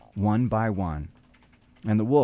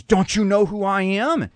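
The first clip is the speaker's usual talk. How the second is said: raised, forceful wolf voice demanding recognition; menacing wolf; 9 semitones higher, 4 dB louder than usual. Acted. Wolf demanding the lamb know him, raised and forceful. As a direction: loom over the lamb and demand. Wolf confronts sheep in story.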